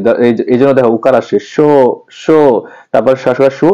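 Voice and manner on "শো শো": "শো" held long; drawn-out syllable. Shown as a demonstration. Teacher showing why the word takes u-kar, drawn-out syllable. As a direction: take time over the vowel of "শো". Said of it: "একটু দীর্ঘ করে সময় নিয়ে উচ্চারণ করি".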